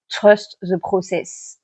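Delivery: English words said in a light French accent, slowly; self-mocking French accent on an English phrase. Real, not acted. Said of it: "Avec mon formidable accent anglais". (anglais avec un léger accent français, un peu lent)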